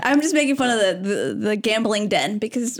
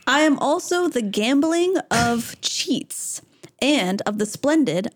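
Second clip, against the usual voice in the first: slow, solemn scripture reading; verse reading. Acted. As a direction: read the verse slowly and with weight. Reads the verse aloud.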